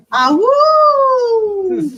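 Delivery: high yelping wolf howl; howling like a wolf pup. Pretend. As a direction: throw your head back and howl ah woo. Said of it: "Where's the ah, woo verse?".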